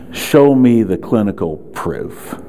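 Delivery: slow, lightly voiced professor's challenge; mimicking the professors. Seminar speaker quoting skeptical professors, a mild mock challenge. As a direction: repeat the professors' demand slowly, barely acted. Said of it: "here's what they say".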